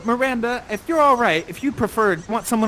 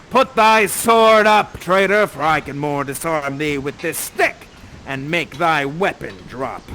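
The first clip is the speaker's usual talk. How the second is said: slow, louder taunt; menacing Prospero; 3 semitones lower, 5 dB louder, slower than usual. Acted. Prospero mocking Ferdinand's drawn sword. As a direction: sneer down at the boy's sword. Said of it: "Prospero to Ferdinand".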